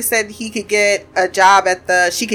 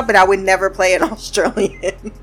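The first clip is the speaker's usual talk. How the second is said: repeating it while cracking up; laughing through it. Retold or imitated. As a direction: quote broken by a laugh on Australian. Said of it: "And he's like".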